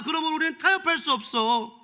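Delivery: a rising sermon climax; fervent preaching. Acted. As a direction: preach it with full conviction. Passionate preaching about Caesar.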